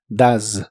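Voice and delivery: "does" said "daz", with the O like an A, no E, and a buzzing final S; say does like duz. Shown as a demonstration. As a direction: model "does" slowly as "daz". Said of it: "Así que suena como does". ("does" pronunciado "daz", con la S vibrante)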